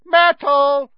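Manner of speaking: high, drawn-out full bellow. A narrator's reading. Poltergeist summons the ghost girl, bellowing. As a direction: bellow it across the room, slowly.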